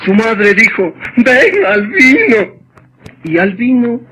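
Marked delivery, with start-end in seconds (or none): 1.2-2.6 mother calling. Acted. Mother calls son.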